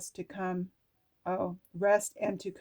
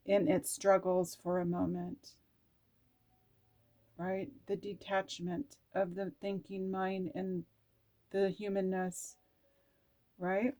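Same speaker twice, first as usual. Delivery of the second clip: oracle card reading. Acted. Tarot reader reading her card aloud, hushed and earnest. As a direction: read the oracle message gently.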